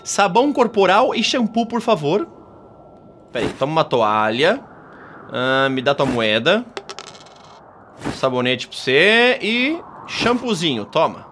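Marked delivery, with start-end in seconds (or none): 3.3-11.3 voz de atendente. Acted. Atendente da sauna entrega toalha.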